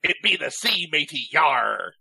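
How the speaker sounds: pirate voice. Pretend. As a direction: ham it up like a pirate. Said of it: "so I wouldn't have to do the pirate voice".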